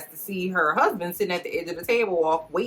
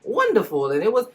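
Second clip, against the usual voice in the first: much higher, swooning mock queen gushing; dreamy gushing queen; 7 semitones higher than usual. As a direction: gush about it like a lovestruck queen. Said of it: "Charlotte is like".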